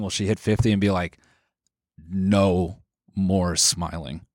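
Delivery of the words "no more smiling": very slow, lower shutdown voice; a singer. Acted. Imagining the star at fifty giving up, slow weary declaration. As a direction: drag out each word, done with it. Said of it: "shut down at fifty".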